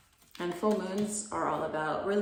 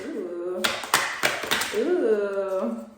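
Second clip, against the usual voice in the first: surprised; 2 semitones higher, 8 dB louder than usual. Real, not acted. Reacting to a drawn card.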